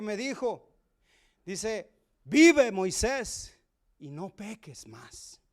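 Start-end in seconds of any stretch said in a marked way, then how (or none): 2.2-5.4 muy lento, como una orden solemne; voz solemne de Jesús. Retold or imitated. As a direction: pronuncia cada palabra despacio, con peso. Jesus speaks his solemn command. (Jesús le da la orden a Moisés, lento y solemne)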